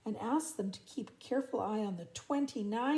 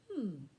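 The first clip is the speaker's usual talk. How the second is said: thoughtful hum; 3 semitones lower, 4 dB quieter than usual. Acted. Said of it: "Bluey said thoughtfully".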